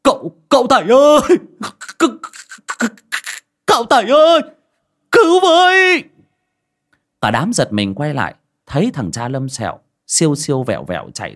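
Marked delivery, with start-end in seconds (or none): 0.0-6.0 high, loud panicked shouting; desperate cry for help. Acted. Lâm Sẹo running up, screaming to Tẩy for help. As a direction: scream for rescue from far behind. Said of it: "vang lên tiếng gọi".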